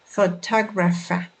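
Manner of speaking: "Photographer" in rhythm, stressed on "tog"; emphasize the second syllable of "Photographer". Shown as a demonstration. Teacher models word rhythm for learners, second syllable stressed. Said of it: "emphasize the stress".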